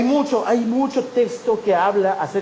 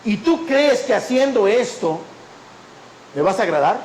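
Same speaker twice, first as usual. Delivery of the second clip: God's challenge; 3 semitones higher than usual. Retold or imitated. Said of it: "escucho la voz de Dios en mi corazón".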